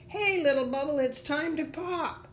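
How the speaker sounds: high-pitched taunting call, loud on the first word; leaves crying out. A narrator's reading. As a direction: call out in a high storybook creature voice. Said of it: "They cried out".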